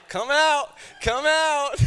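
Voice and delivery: high, loud sing-song coaxing; a boastful peacock luring the shy turtle out; showy peacock coaxing. Acted. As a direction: call out like a preening show-off.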